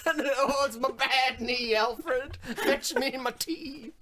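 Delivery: slow, fussy, pampered lord moaning; imperious plummy grande dame. Retold or imitated. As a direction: whine like a spoiled aristocrat calling the butler. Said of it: "He's such a fucking drama queen".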